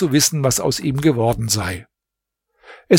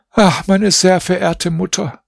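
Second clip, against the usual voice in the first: put-on higher, pleading young princess voice; a shaken young princess appeals to her mother; princess crying out; 6 semitones higher than usual. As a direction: cry out to her mother in distress. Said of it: "rief sie".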